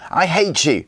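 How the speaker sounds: put-on boy swearing a blood oath at Scully; furious oath. A narrator's reading. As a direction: swear it through rage. Gunnar lashing out, swearing vengeance.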